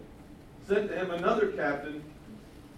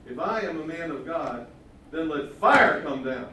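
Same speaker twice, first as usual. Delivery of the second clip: commanding prophet; 7 dB louder than usual. Retold or imitated. Preacher voices Elijah's command.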